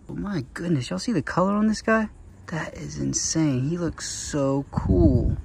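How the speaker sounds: real excited gasp of wonder, pitched high; thrilled by the colours, voice jumping up; amazed. Real, not acted.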